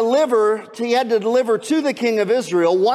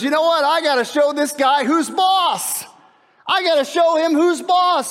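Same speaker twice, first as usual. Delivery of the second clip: mock tough king; 5 semitones higher than usual. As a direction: puff up and call it out. Joram voiced, angry resolve.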